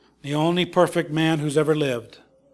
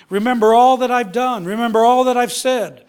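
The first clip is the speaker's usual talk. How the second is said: emphatic command; 5 semitones higher, 4 dB louder than usual. Acted. Preacher voicing Jesus' last supper command.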